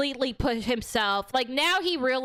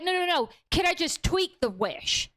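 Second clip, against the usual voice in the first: much higher, hurried protest; eager refusal; 5 semitones higher than usual. Retold or imitated. Bear telling customer service no, eager high refusal. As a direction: brush it off, keen to keep the wish.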